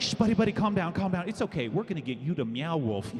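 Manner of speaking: calm down a freaking-out guy; guard hushing a high customer gently; soothing guard. Retold or imitated.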